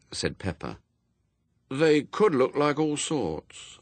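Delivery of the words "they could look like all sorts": put-on high, drawn-out boy's doubt; hesitant child figure; doubtful. A narrator's reading. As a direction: say it slowly, unsure, pitched up. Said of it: "said Adam doubtfully".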